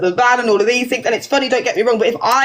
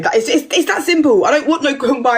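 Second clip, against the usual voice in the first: pressing on over interruptions; fired up, passionate. Real, not acted. Woman talking over a man who wants her to listen, fired up. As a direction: keep insisting, passionately, as they cut in. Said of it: "you're firing now 'cause you're passionate".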